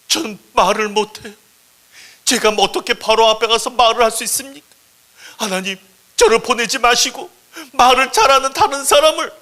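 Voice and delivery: high, loud, gasping plea; distressed pleading. Acted. Moses begging God to send someone else, hammed-up distress. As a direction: beg desperately between gulps of breath. Moses begs not to be sent.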